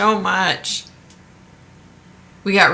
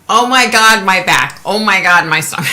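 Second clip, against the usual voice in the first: louder, hammed-up complaint about aches; mock pained groaning; 7 dB louder than usual. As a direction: play up the aches like falling apart. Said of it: "and it's like".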